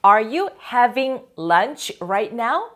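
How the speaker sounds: Are you having lunch right now? said very slowly, rising at the end; slow, careful question for learners; slow model question. Shown as a demonstration. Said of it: "teacher models the question".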